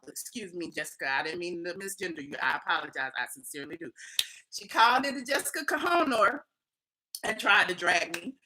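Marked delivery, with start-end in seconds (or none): 0.1-3.9 low, soft aside; sincere apology. Real, not acted. Apologising for misgendering someone.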